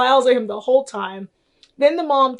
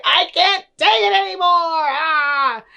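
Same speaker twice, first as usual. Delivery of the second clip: higher, fast mock outburst ending in a cry; fed-up Mary; 6 semitones higher than usual. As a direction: snap and storm out like a frustrated wife. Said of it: "she's like".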